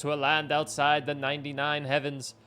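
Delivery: a village shaman preaching legend; solemn shaman voice. Acted. Reads shaman's solemn tale.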